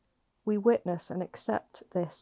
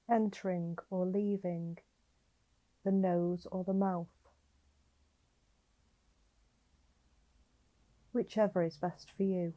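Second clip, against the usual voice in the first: slightly softened meditation voice with long pauses; guided meditation; 3 dB quieter than usual. Acted. Guiding a listener lying down to notice their breathing, calm meditation voice. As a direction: gently guide the listener into breath awareness, leaving space between phrases.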